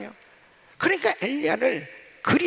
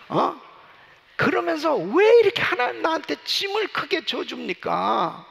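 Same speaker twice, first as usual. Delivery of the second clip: angry protest; 3 semitones higher than usual. Acted. Moses protesting angrily to God.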